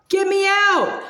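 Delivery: muffled cry from a tuba; muffled inside tuba. A narrator's reading. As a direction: shout from inside. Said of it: "voice echoed from inside the instrument".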